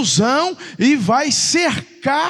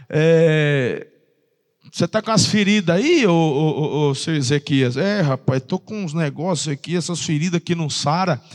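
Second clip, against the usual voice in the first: lower, tired groaning king; weary sick king; 7 semitones lower than usual. Retold or imitated. The sick king complains to the prophet, low and weary. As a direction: play the sick king moaning about his sores.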